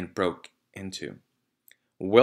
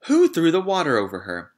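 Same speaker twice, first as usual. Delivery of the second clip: loud, higher sharp question; demanding; 8 semitones higher, 8 dB louder than usual. A narrator's reading. Matron demanding who threw the water, loud. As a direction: demand to know who did it.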